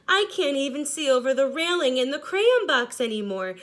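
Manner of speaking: lightly voiced stubby crayon, a touch plaintive; worn-out blue crayon. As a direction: ask for a break as a tiny crayon.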